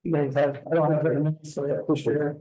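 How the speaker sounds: rough, worn voice from being ill; hoarse sick voice. Real, not acted. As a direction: speak through a sore, hoarse throat. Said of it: "Excuse my voice, I've been sick".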